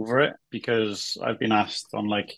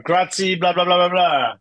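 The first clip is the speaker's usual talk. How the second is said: loud, high mock shout out a window; hammed-up street holler; shouted Italian greeting; 6 semitones higher, 6 dB louder than usual. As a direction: belt it out to the whole town. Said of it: "And shout".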